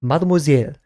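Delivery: mock French. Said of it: "has French in there".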